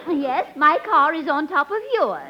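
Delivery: a hint of a fluttery, giddy society lady; scatterbrained lady. Billy gushes to Eddie, lightly voiced giddy lady. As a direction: play it dizzy and delighted. Billie Burke's scatterbrained persona.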